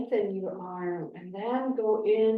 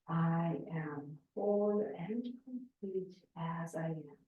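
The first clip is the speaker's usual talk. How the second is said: softer mantra at half volume; 3 semitones lower, 6 dB quieter than usual. Shown as a demonstration. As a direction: say it at half voice, fading at the end. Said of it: "whispering or half the noise, the voice".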